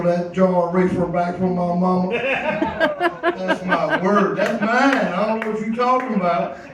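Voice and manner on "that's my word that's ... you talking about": put-on protesting kid. Wrestling jar from mama in story.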